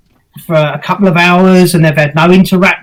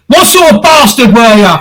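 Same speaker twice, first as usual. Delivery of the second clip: goading, raised-pitch challenge; changed aggressive tone; 2 semitones higher than usual. Shown as a demonstration. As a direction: demonstrate taunting a spirit. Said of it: "change the tone of your voice".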